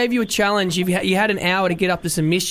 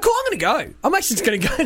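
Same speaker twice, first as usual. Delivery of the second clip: a lightly voiced girl, much higher and airy at first; mock her polite brush-off, pitched up; imitating the girl; 6 semitones higher, faster than usual. Host retelling the girl's exit line in a lightly raised mock voice.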